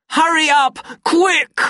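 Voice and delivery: high, loud impatient command; angry urging. A narrator's reading. Savage ordering cowering Lenina away, high angry shout. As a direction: shout to drive someone out.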